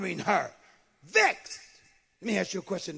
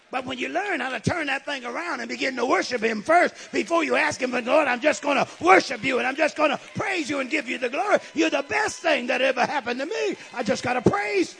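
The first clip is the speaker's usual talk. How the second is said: fervent preaching; 4 semitones higher, 6 dB louder than usual. Acted. Preaching at full force.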